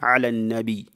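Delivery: النبي said lightly, with an undoubled ya; light takhfif reading. Shown as a demonstration. Teacher showing students the lighter reading, النبي without tashdid. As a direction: end النبي lightly on nabi. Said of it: "donc légèrement".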